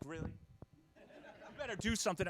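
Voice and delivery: slow, hushed warning; stern teacher. Retold or imitated. Teacher glares at laughing parent, hushed stern warning. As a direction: scold under your breath, slowly. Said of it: "teacher just gives me the death stare".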